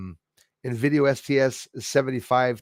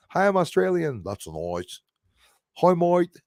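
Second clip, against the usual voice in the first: mocking Aussie stereotype; 5 semitones higher than usual. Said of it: "everyone just started saying that".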